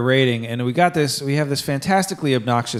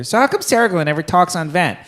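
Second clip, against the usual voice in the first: put-on pestering kid; 5 semitones higher than usual. Kid asks yet again.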